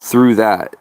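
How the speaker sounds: muffled, like talking into a cup; boxy lapel mic sound. Real, not acted. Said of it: "Sounds like I'm talking into a cup".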